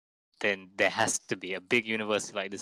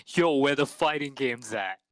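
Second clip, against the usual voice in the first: douchey bro voice; 4 semitones higher, 5 dB louder than usual. Retold or imitated. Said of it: "This, this is how he was talking".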